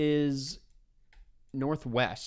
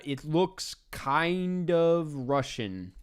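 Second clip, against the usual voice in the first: drawn-out, higher musing guess; slow drawn-out guess; 4 semitones higher, much slower than usual. Real, not acted. Player musing over a map, slow and drawn out. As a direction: stretch it out while thinking.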